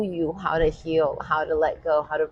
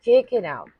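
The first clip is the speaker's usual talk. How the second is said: louder, higher push; forceful; 4 semitones higher, 6 dB louder than usual. Shown as a demonstration. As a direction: urge them on with force. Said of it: "Be a bit forceful here".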